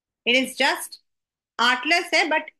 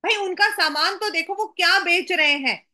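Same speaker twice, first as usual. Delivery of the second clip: quick, higher, mock-cross telling-off; mildly angry; 4 semitones higher, much faster than usual. Poem's narrator scolding those who complain, mildly angry. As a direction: act out a touch of impatient anger. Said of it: "tone है वो anger का है".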